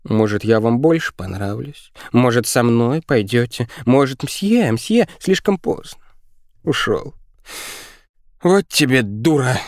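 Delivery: put-on high girlish plea turning to scolding; desperate high-pitched child voice; pleading girl. A narrator's reading. Girl pleads, then turns on mother.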